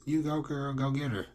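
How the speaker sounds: high, loud hammed-up cheerleader squeal; cheering switch. The speaker flips sides and cheers Alti on, high hammed-up squeal. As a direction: suddenly egg her on like a hyped best friend. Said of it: "she immediately switches"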